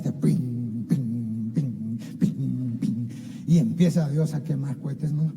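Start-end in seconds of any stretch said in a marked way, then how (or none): 0.0-3.1 low mock fireworks pops; imitated fireworks. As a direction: mimic the bangs of fireworks, low. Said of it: "ahí queman cohetes como no sabes".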